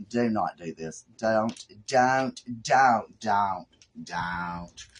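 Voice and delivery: frantic repeated don't at the craft; urgent begging as it slips; panicked pleading. Real, not acted. Crafter begging her project not to ruin, panicked. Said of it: "Samantha has flipped her lid".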